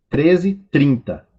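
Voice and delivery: usual speaking voice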